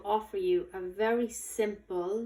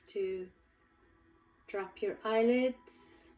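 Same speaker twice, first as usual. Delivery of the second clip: guided meditation. Acted. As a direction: guide them gently, unhurried, lingering on key words. Leads a guided visualization.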